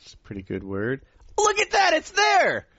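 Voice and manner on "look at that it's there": high-pitched, incredulous exclaiming; astonished outburst. Real, not acted. Host finding his friend's pronunciation in the dictionary, astonished. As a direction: blurt it out, voice leaping up in disbelief.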